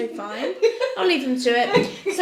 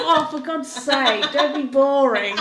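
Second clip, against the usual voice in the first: whiny complaint; 2 semitones higher, 6 dB louder, slower than usual. Retold or imitated. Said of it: "I was like".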